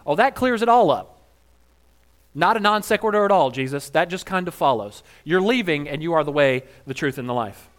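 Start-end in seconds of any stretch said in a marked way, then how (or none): 0.1-5.0 sarcastic. Real, not acted. Sarcastic comment on Jesus.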